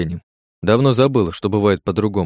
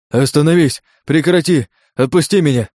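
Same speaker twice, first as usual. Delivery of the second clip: loud, higher, desperate cries; straining shouts; 6 semitones higher, 5 dB louder than usual. Acted. Captive old man screams to be released, desperate. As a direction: scream yourself hoarse begging. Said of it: "надрывался старик".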